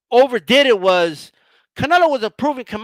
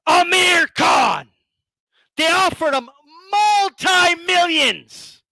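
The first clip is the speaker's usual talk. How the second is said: incredulous rant; 5 semitones higher, slower than usual. Real, not acted. Ranting about the Amir Khan offer.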